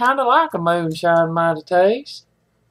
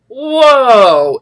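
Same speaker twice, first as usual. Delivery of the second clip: whiskey hits; 4 semitones higher, 6 dB louder than usual. Real, not acted.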